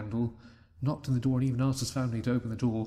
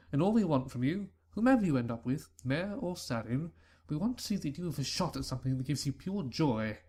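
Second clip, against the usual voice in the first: a lightly voiced father, raised and earnest; fatherly voice; 3 semitones higher than usual. Father tells his son they support him, lightly voiced. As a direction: speak as a proud, accepting father.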